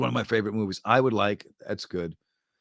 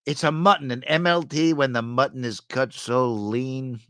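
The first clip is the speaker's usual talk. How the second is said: movie impression; 2 semitones higher than usual. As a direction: savour the line like the character. Princess Bride MLT quote.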